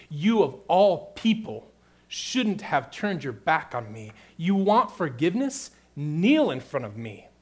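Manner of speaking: a mafia boss demanding he kneel; stern rebuke. Retold or imitated. Hypothetical harsh Jesus rebuking Peter.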